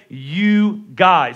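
"You guys" said plainly, falling; "You guys" as the Northeast says it. Shown as a demonstration. Pastor to church, showing his own "You guys". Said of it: "Some people say".

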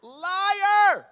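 hammed-up shout of liar through laughter; laughing liar. Punchline callout.

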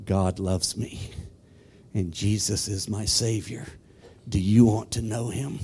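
low, soft imitation of an electronic voice box; computerized voice box. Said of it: "put that thing up to his throat".

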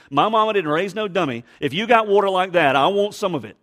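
playfully cocky, punched-up retort; sassy. Acted. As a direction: say it boldly, no fool here. Voicing the woman's sassy thought.

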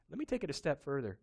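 ordinary delivery

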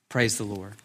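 softly, dropping the voice low; a soft worshipful aside; quiet praise. Real, not acted. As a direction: let it fall to a hushed praise. Quiet closing praise after climax.

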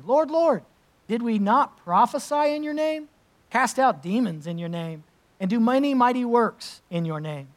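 high, loud, desperate pleading; the crowd protesting to the Lord. Acted. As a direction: beg as if the door is closing on you. Voicing the pleading crowd in Scripture.

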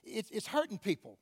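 hushed mocking whisper-like jab, lightly voiced; Satan's taunt. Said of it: "Satan, you know, has tried to tell me".

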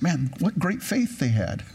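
mock admiration, pitch climbing at the end; sarcastic. Real, not acted. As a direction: praise them sarcastically, about to laugh. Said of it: "I'm being sarcastic".

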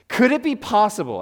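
courtroom-style pleading question; appealing to juries. Real, not acted. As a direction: pose it like counsel to a jury. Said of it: "I feel like I'm appealing to juries".

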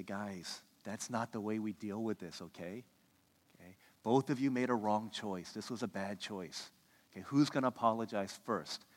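low, soft fatherly correction; calm father. Retold or imitated. Dad settles two upset children, calm and soft. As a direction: quietly talk the kids down.

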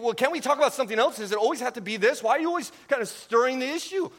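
a fed-up listener begging for a change of topic; exasperated plea. Retold or imitated. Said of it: "and you think".

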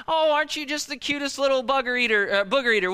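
put-on high, sing-song cooing at a baby; baby talk. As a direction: coo over a little one, playfully. Cooing at someone else's baby.

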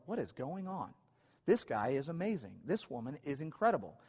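mildly hammed-up astonishment, swooping intonation; amazed boss. Earthly boss reacting to a devoted employee, lightly acted amazement. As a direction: lightly play a boss marvelling at a worker.

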